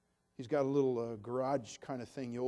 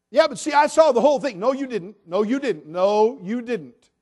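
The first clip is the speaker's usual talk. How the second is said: forceful rebuttal; 9 semitones higher, 17 dB louder than usual. Real, not acted. Arguing with a doubter, loud.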